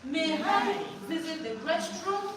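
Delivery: slow, polite May I visit the restroom; child's polite request. Shown as a demonstration. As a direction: model a pupil asking nicely. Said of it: "let them also use it with you".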